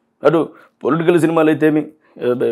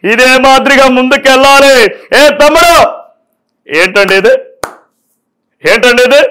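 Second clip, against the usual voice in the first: higher, louder rally politician; hammed-up politician calling out to supporters; politician impression; 5 semitones higher, 3 dB louder than usual. Mimic repeats politician lines louder.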